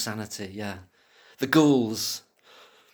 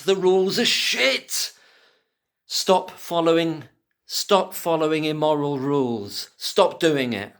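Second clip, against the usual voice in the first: shouting; 4 semitones higher than usual. Real, not acted. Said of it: "like, shouting".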